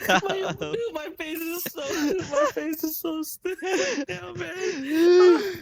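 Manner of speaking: strained voice through laughter; laughing. Real, not acted. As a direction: push it out while laughing. Face aching from laughing.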